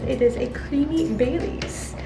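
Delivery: lightly voiced Mighty Boosh quote with a rising end; a hint of a creepy creature crooning about Bailey's; quoting a cult comedy line, slightly put-on; Mighty Boosh reference. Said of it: "Anyone ever seen Mighty Boosh, you might get the reference".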